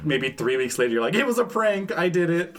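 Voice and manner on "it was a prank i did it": high, excited announcement; spring the big reveal; gleeful prank reveal. Acted. Prankster reveals all to friend weeks later, gleeful.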